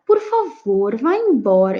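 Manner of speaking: polite, mild plea on "Por favor"; softened request. Shown as a demonstration. Teacher demonstrating a softened imperative with por favor, softened request. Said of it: "eu tô suavizando".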